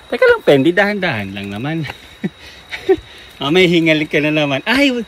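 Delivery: loud high calling to the dog. Real, not acted. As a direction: shout encouragement up the trail. Urging dog up a trail.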